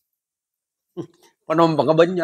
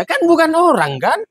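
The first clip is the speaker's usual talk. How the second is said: insistent driver; 13 semitones higher than usual. Acted.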